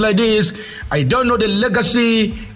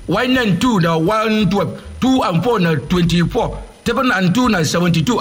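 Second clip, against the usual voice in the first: mock child counting. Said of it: "speaking like children's way".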